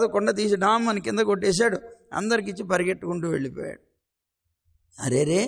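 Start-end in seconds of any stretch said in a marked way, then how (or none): 5.0-5.4 dismayed gopis. Acted. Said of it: "అనుకున్నారు గోపికలు".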